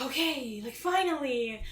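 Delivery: playfully exasperated quote; mock relief at last. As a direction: imitate an impatient group's reaction. Voicing the girls' reaction to the news.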